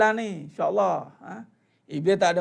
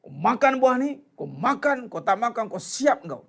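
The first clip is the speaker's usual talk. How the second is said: threatening. Shown as a demonstration. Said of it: "Iblis datang bukan dengan marah-marah".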